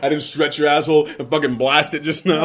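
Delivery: loud, high indignant protest; mock outrage. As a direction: play up being offended.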